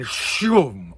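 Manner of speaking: drawn-out, punchy whoosh; whooshing sound effect. Retold or imitated. Lecturer showing how glass pieces drop into the tray, whoosh. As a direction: imitate a rush of falling glass.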